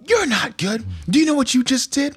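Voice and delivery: high, mock-stern scolding father voice; stern dad. Dad mock-scolding son in story.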